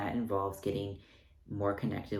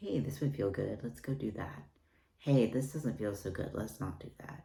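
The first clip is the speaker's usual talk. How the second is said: calm, gentle, soft, peaceful voice. The speaker demonstrates the guiding inner voice: very peaceful voice. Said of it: "the voice that's very peaceful".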